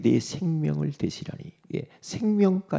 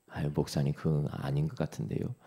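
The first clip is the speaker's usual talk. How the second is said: low, softened objection; doubtful church member; 10 semitones lower, 7 dB quieter than usual. Acted. Church member disagreeing with the pastor, quiet doubtful murmur. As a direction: murmur a meek doubt in a lower voice.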